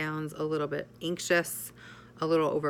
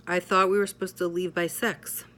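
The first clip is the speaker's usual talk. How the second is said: a slight edge of impatience; little edge. Shown as a demonstration. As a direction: let a touch of pressure slip in. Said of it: "a little edge in my tone".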